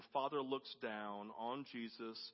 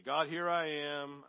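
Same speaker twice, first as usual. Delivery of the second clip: prayer; 3 semitones higher, 10 dB louder, slower than usual. Shown as a demonstration.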